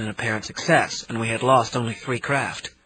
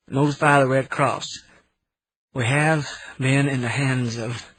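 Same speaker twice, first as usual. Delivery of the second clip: tired Southern voice. Acted. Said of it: "a very tired Southern voice said".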